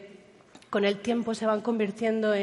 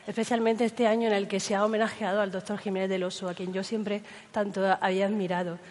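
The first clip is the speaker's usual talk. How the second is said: hoarse voice. Real, not acted. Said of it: "esta voz de ultratumba que tengo hoy".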